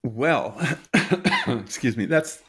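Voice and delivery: coughing after water went down wrong; throat still catching after a cough; swallowed wrong way. Real, not acted. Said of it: "I'm coughing because I just took a drink of water that went down the wrong way".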